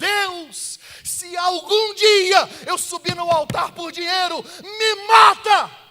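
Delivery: very high, very slow, drawn-out shout. Retelling a prayer during a sermon: imitating own past shouting. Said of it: "eu gritava".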